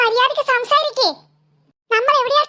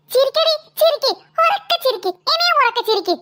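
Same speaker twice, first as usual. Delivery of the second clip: angry taunt. Acted. Angry boy dares them laughing.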